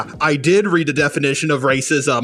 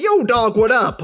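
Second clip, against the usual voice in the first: higher, lightly put-on stereotypical street voice; mock stereotype accent; 7 semitones higher than usual. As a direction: toss off a cheesy stereotype greeting. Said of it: "stereotypical black guy accent like".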